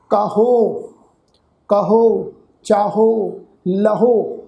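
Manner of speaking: ਕਾਹੋ ਕਹੋ ਚਾਹੋ ਲਹੋ with a heavier final ਹ, set apart word by word; pronunciation demo. Shown as a demonstration. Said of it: "ਇਹਨੂੰ ਅਸੀਂ ਥੋੜ੍ਹਾ ਭਾਰਾ ਕਰਕੇ ਉਚਾਰਨ ਕਰਾਂਗੇ".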